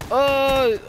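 high, loud "uh" of frustration; frustrated yelp. Real, not acted. Gamer when the enemy won't die, frustrated yelp. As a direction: yelp out "uh" at the missed kill. Reacting to a missed kill.

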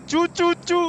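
high-pitched mocking squeaks; teasing high impression of a knocked friend; mimicking a knocked teammate. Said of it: "तो क्या करता है?".

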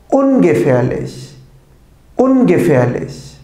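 slow, clear dictation of each word, said twice; pronunciation drill, every word spaced out and crisp; careful German pronunciation. Shown as a demonstration. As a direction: model each German adjective slowly for students to repeat. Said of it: "doğru telaffuzlarıyla yineleyelim".

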